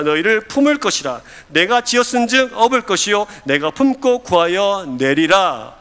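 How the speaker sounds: measured, solemn scripture recitation; formal Bible reading aloud. Acted. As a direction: read it out for a congregation, drawing out the line endings. Reads scripture aloud to congregation.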